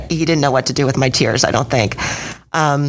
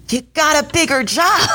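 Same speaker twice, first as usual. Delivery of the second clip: much higher, amused imitation of the coach; 13 semitones higher than usual. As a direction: mimic her teasing, laughing question. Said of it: "she's laughing".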